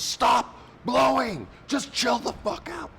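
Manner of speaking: high, slow whiny yell at the wind; mock whiny plea. Contestant Larry yelling at the wind, high and whiny. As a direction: beg the wind like a sulking kid. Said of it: "he literally goes".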